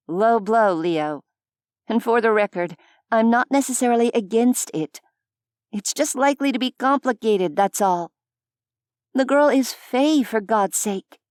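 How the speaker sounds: high, quick defensive female voice; exasperated Vani. A narrator's reading. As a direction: bristle and talk fast. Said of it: "She huffed a laugh".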